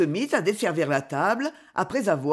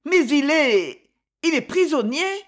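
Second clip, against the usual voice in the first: terrified disbelief; 8 semitones higher, 4 dB louder than usual. A narrator's reading. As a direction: gasp it out in horrified shock. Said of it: "la stupéfaction se mêlait à l'épouvante".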